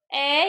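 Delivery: ए drawn out; lengthened ए for the class; long vowel. Shown as a demonstration. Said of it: "थोड़ा सा जोर लगा के लंबा बोलते हैं".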